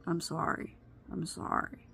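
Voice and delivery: hushed retold apology, a mild hint of sobbing; tearful apology. Stepdaughter apologizing on her shoulder, whispered and tearful. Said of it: "falls on my shoulders and cries".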